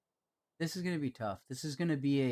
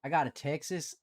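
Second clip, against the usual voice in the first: Southern accent. Shown as a demonstration. Trying out a Southern accent for chat, rhotic Southern twang. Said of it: "the Southern accent is very rhotic".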